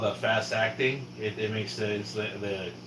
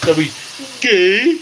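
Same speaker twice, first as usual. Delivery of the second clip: retold taunt; 12 semitones higher, 12 dB louder, slower than usual. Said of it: "they used to get mad when I said".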